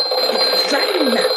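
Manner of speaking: loud, slow, at the end of his rope; frantic. Acted. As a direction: driven mad by the ringing. Complains about the phone.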